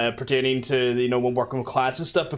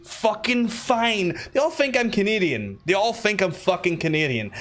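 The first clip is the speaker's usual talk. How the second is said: slow, higher-pitched protest; mock exasperation; 5 semitones higher than usual. Passenger insisting to taxi driver he's local, mock exasperated. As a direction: draw it out, playfully fed up.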